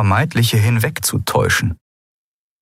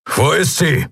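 higher demanding question; Keru asking; 9 semitones higher than usual. A narrator's reading. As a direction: ask where she is, pressed but held back. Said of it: "Wo ist sie? brüllte er".

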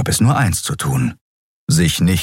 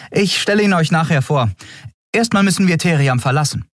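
put-on higher, brisk young woman's voice; young captain Andriel; 11 semitones higher, faster than usual. A narrator's reading. Captain explains to her crew, lively and quick. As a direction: lift it up and push on briskly.

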